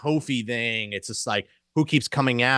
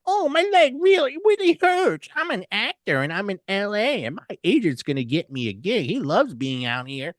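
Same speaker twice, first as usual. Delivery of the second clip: MJF impression; 9 semitones higher than usual. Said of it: "M J F is like".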